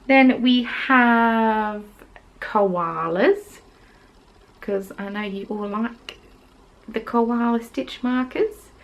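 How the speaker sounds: a bad Australian accent, slow and drawn out; a self-mocking Australian accent, announcing koalas. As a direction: try a jokey Australian accent that slides toward New Zealand. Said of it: "That's my attempt at an Australian accent".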